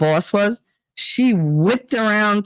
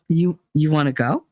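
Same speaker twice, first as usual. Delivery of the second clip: real calm; 3 semitones lower than usual. Retold or imitated. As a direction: stay cool and steady, almost smiling. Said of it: "Real calm".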